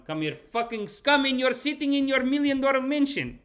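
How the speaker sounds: high-pitched angry rant in imitation; mock tirade. Streamer voicing the man who turns back to rant, mock-angry. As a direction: act out a worked-up man laying into them. Acts out the man's returning tirade.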